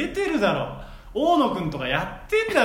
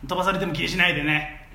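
loud nosy osaka auntie; 3 semitones lower than usual. Acted. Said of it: "お姉ツッコミ".

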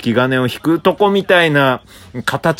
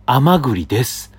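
reluctant chestnut voice; 4 semitones higher than usual. Pretend. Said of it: "甘栗側の言葉で言うと".

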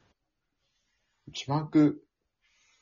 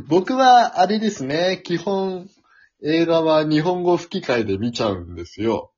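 over enunciating; 5 semitones higher than usual. Real, not acted. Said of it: "今からそれをやたら注意して喋ります".

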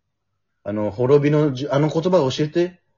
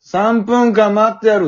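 slow, loud menacing villain; 9 semitones higher, 7 dB louder, slower than usual. Retold or imitated. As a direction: drawl it like a cold villain. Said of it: "って言うのよ".

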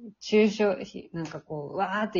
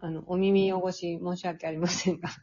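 blocked nose, still recovering; nasal voice; 3 dB quieter than usual. Real, not acted. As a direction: speak with a stuffy nose. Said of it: "あの、鼻声ですけど、".

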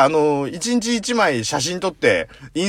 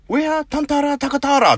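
English-hybrid gibberish; 11 semitones higher, 4 dB louder than usual. Retold or imitated. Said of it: "ハイブリッドなんだよ".

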